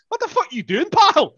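high, yelling Glasgow driver; Glasgow street accent. Retold or imitated. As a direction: shout at him like an outraged Glaswegian. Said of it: "and he goes".

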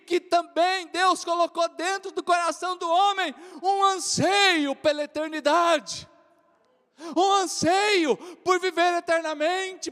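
loud climactic sermon cry; preaching shout. Acted. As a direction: lift the congregation with it. Clímax da pregação. (brado de pregação)

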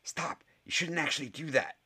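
put-on high anxious boy's voice; panicky. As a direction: stop him before it's too late. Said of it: "his voice suddenly panicky".

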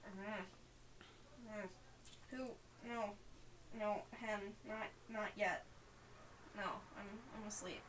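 soft, drowsy protest; sleepy and quiet, reluctant to wake; half-asleep mumbling. Acted. Player's sleeping character brushes off being poked, groggy. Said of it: "are very deeply asleep".

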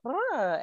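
small, high-pitched "huh"; imitated little "huh". Host imitating the French guest's sentence ending, little "huh". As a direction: imitate his little verbal flourish. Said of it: "he has that little".

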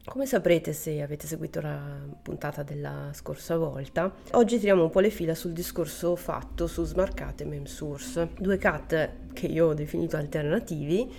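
flu-hoarse voice; talking through a flu-worn voice; voice giving out. Real, not acted. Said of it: "scusate per la voce".

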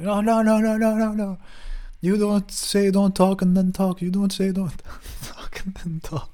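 high, loud mocking yell of the roommate; mocking shout. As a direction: shout him down in a shrill mock voice. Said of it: "Started shouting".

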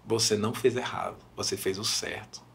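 soft, low, measured comfort; imitated gentle reassurance. Retelling a singer comforting a mother, softly reassuring. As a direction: reassure quietly and firmly.

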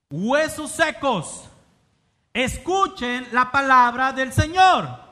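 loud, high proclamation, drawn out; exclamatory. Shown as a demonstration. Preacher reading God's command to the dry bones, exclamatory. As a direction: proclaim it with exclamation marks, big and slow. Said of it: "vienen signos de exclamación".

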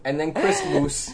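"Christmas" as CHRIST-moose, slow; deadpan "Christmas" with a moose ending; mocking mispronunciation. Teasing how co-host sounds, "Christmas" ending in moose. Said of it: "That's what you sound like".

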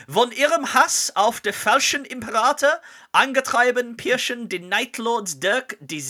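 slow, loud, halting German reading; halting phrasebook tourist. Shown as a demonstration. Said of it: "I apologize for my terrible German".

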